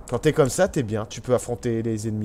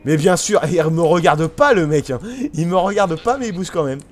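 sarcastic; 5 semitones higher, 7 dB louder than usual. Real, not acted. Sarcastic about enemy AI.

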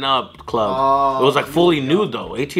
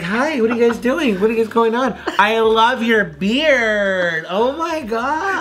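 lightly raised, gushing flirt; flirty stripper voice; 5 semitones higher, slower than usual. Retold or imitated. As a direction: gush over him like a flirty dancer. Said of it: "it's like".

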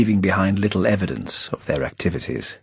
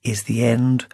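Playfair's voice; slower than usual. A narrator's reading.

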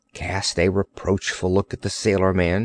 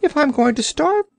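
high, insistent creature demand; demanding Orc. Acted. Orc demanding the biscuit from Cap'n Bill, high insistent voice.

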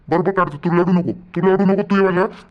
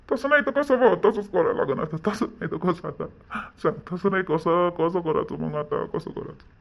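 despairing, fading; 5 dB quieter than usual. Acted. Despairing father fades out.

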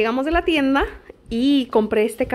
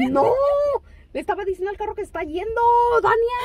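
laughing reply; 11 semitones higher than usual. Retold or imitated. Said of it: "retold reply to Dania".

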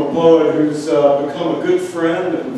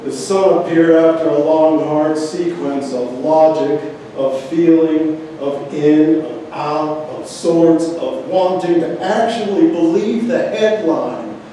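recital built in short, separated phrases; poetry reading; slower than usual. Acted. Reading on to a live audience, phrased poetry reading. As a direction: recite the list piece by piece, then lift. Continues reading poem aloud.

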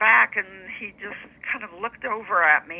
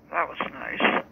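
a singer's drawl. Retold or imitated. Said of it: "in his little drawl".

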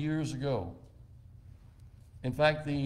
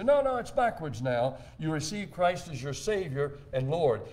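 mock objection. Preacher imitating critics who insist the order is backwards, mildly mocking. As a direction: playfully mimic the correcting theologians. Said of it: "They say".

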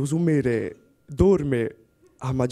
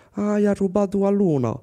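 mocking retort; 7 semitones higher than usual. Wife mocks husband's moon theft.

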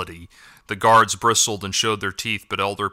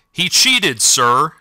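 higher, sharp indignant protest; spat out; 6 semitones higher, 3 dB louder, much slower than usual. A narrator's reading. Defeated guardsman protesting to the elder, spitting it out. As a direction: spit the accusation at him. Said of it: "spat Bigham".

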